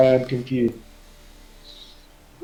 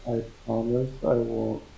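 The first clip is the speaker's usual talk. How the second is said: muffled, as through a pillow; talking through a pillow; 5 dB quieter than usual. Real, not acted. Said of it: "Ty, you're very muffled".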